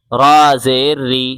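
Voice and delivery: री said light and fine, with a thin रा; teacher showing the thin ra. Shown as a demonstration. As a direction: keep रा thin under the zer. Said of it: "रा को बारीक पढ़ेंगे".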